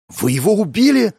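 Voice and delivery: high, loud outraged question; indignant. Acted. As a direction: demand an answer in shock. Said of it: "возмутилась женщина".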